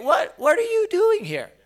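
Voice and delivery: loud, high, emotional challenge; God with attitude. Acted. Preacher shows God confronting Elijah with attitude, loud and high. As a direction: demand it loudly, full of attitude. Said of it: "I can hear it with attitude".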